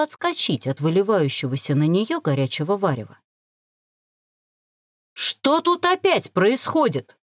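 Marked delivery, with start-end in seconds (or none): 5.1-7.2 slow, much higher angry growl; growled question. Acted. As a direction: growl at the commotion. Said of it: "рыкнул Грэди". (грозно рыкнуть, медленно)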